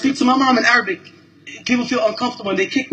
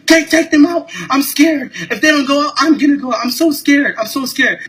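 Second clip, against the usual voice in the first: mocking scared passengers; 4 semitones higher than usual. Imitating passengers who claim to be scared of him, high and mocking. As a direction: mimic their fear with sarcasm. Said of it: "the other white people were like".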